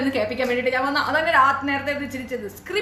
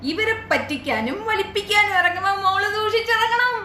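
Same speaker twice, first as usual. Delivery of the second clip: mocking taunt; 5 semitones higher than usual.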